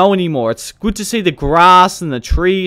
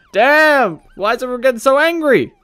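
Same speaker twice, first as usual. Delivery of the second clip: surprised exclaim; 10 semitones higher, 4 dB louder than usual. Real, not acted. Players getting angry at him.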